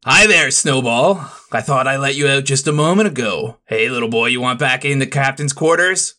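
a hint of a creepy sailor talking baby-talk to a kitten; understated cooing voice; creepy cooing first mate. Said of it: "That sounds so creepy out of context".

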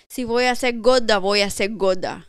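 emphatic Spanish comeback. Retold or imitated. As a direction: fire it back at the coworker, loudly. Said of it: "in the female tense".

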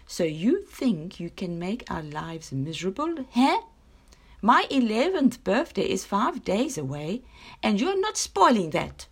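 mock-scold the sun, pitch rising. A girl shaking her fists at the sun, mild scolding. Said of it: "she scolded".

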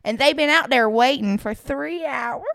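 put-on light Southern country accent throughout. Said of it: "That was a really good country accent".

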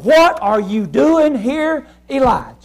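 slow, searching question; slow voice of God. Acted. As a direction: ask it slowly, like God calling him out. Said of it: "he said".

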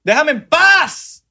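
high, slow pleading whine, falling end; drawn-out whine. Acted. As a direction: drag it out, fed up. Begging salespeople to stop.

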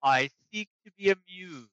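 slow, booming dragon. Acted. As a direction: speak as an ancient proud dragon. GM voicing the dragon.

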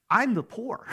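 sudden high realization, half-laughing; mock realization. A listener realizing mid-paycheck, in mock surprise. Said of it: "you're sitting there going like".

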